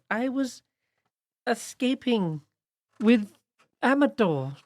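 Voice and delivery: high, light sprite voice; small fairy queen pleading. Acted. Pollinella character voice.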